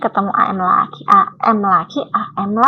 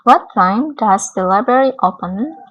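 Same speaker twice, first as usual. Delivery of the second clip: slow model reading; slower than usual. Shown as a demonstration. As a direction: read slowly and carefully for learners. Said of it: "Yang ketiga". (dibaca pelan dan jelas)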